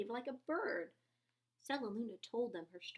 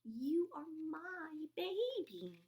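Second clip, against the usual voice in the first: whispered; 6 semitones higher, slower than usual. A narrator's reading. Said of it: "she whispered".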